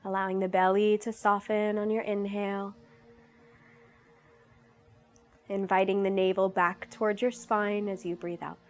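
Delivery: calm, unhurried meditation guidance; guided meditation. Real, not acted. Yoga teacher leading viewers into breathing, in guided meditation style. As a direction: guide them gently, pausing between instructions.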